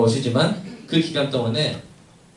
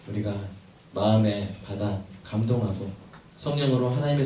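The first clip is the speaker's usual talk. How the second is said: measured pastoral prayer with long pauses. Real, not acted. Pastor praying to God for the congregation, reverent prayer. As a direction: pray earnestly, phrase by phrase.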